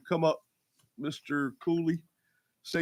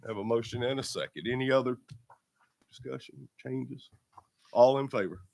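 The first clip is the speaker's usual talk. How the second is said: muffled by a cold. Real, not acted. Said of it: "Sorry if I sound like I'm in a box".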